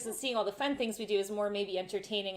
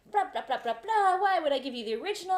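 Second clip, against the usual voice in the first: high, louder mock rant; dismissive; 7 semitones higher, 5 dB louder than usual. Car company staff refusing a tourist, dismissive. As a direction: brush them off in mock outrage.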